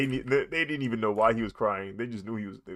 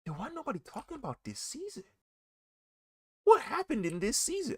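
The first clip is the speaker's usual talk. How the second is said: alarmed question. Retold or imitated. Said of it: "I said".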